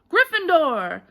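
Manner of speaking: loud, high shout; loud relieved call; hat finally shouting. A narrator's reading. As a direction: release it after a long wait. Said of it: "When it finally shouted".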